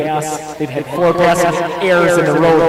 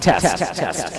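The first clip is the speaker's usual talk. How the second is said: echoing; slower than usual. Real, not acted. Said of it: "Wade is echoing".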